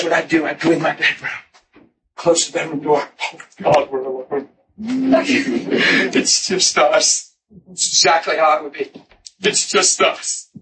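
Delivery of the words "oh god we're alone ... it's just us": hushed, tender, partly whispered prayer; intimate prayer. Retold or imitated. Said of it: "I would pray that way".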